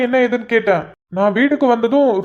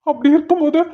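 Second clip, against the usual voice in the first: higher-pitched, panicked questioning; alarmed; 4 semitones higher than usual. Acted. Husband hears of pains a month early, alarmed. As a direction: question her in rising alarm.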